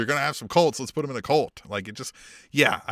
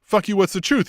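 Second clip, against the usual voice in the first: higher, louder snapped comeback; mock angry retort; 7 semitones higher, 4 dB louder than usual. Miz snapping back at Gargano, mock angry retort. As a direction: throw it back at him. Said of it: "Next week, he's like".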